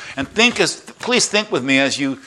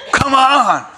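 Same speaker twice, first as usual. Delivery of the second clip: God as an excited fan, much higher and louder with a laugh; cheering fan; 11 semitones higher, 5 dB louder than usual. Retold or imitated. God cheering on the runner like a fan, excited laughing shout. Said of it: "he's going".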